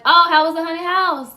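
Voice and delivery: high, loud mock-mom greeting; mom's chirpy question. Teen retelling how mom greeted her at home, high mock chirp.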